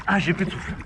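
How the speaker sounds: out of breath, gasping between words; winded, fighting for air. Real, not acted. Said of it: "j'arrive plus à respirer".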